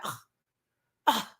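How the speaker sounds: two short annoyed scoffs. Retold or imitated. Boyfriend scoffing at his girlfriend's question, annoyed. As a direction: scoff like you can't be bothered. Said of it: "that little scoff".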